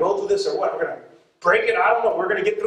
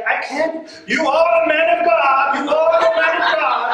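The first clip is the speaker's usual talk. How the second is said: much higher and louder, in awe; excited driver; 8 semitones higher, 4 dB louder than usual. Retold or imitated. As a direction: gush like an amazed new believer. Excited driver praises preacher.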